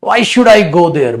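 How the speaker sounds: a touch of anger, drawn out; mild angry refusal. Shown as a demonstration. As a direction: refuse with some heat. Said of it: "Anger, refuse to do something".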